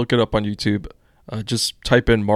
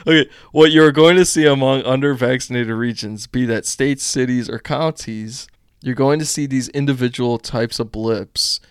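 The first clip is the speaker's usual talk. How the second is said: Doctor Fauci voice; 5 dB louder than usual. Acted. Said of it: "I wanna do the Doctor Fauci voice".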